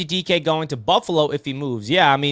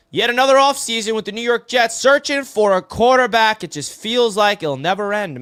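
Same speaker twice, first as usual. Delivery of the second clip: louder, higher fed-up complaint; exasperated rant; 8 semitones higher, 6 dB louder than usual. Real, not acted. Jets fan venting to chat about quarterbacks, exasperated. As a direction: vent like a long-suffering fan.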